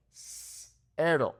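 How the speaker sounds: cero with a sharp snake-like s; hissing S. Shown as a demonstration. Teacher modeling the Mexican S. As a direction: hiss the s in cero. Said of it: "like a snake".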